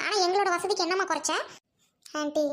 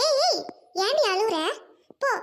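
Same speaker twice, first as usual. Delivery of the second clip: scolding shout; 4 semitones higher than usual. Acted. Aunt scolds crying girl.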